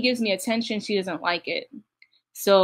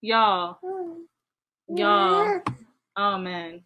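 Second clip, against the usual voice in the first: laughing fit; 2 semitones higher, much slower than usual. Real, not acted. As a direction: lose it completely, cry-laughing. Laughing fit over clip.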